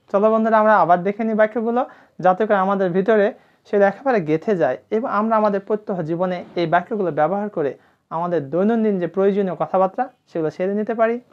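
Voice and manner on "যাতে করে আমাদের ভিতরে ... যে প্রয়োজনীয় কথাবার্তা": ordinary delivery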